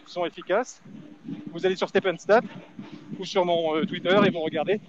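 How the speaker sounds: breathless while running; out of breath. Real, not acted. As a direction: talk while jogging, short of breath. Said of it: "c'est dur de parler courir en même temps".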